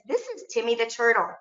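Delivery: teacher voice to students. Retold or imitated. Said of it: "So I tell my students".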